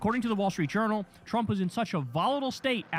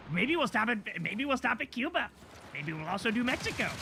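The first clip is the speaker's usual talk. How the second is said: higher, offhand mocking voice; mock casual Trump; 4 semitones higher than usual. Host mocking Trump's offhand talk of new wars, higher and offhand. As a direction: toss it off like it's nothing, mocking.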